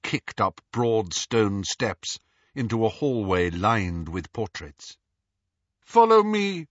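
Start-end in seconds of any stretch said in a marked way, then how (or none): 5.8-6.7 high, loud cold command; cold haughty lady. A narrator's reading. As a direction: order it coldly. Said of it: "said Narcissa".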